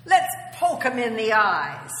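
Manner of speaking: hissing. Acted. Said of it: "hissed the hummingbird".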